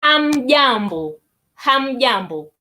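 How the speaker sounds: Hamjambo said slowly and clearly; slow Swahili demo. Shown as a demonstration. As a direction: model hamjambo for the learners. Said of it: "you will say".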